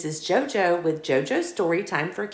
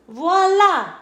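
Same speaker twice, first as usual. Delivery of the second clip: high, loud ta-da; a proud ta-da; proud reveal; 11 semitones higher, 8 dB louder than usual. Acted. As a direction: show off the finished art. Friend shows art.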